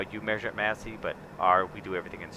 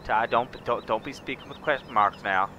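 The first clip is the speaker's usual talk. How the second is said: southern ranch talk; 3 semitones higher than usual. Acted. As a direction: lay on a big Southern accent, welcoming a partner. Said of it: "I could go all southern on you".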